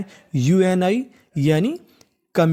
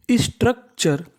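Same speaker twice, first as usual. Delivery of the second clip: emphatic model word; 5 semitones higher, slower than usual. Shown as a demonstration. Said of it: "तो पूरी meaning".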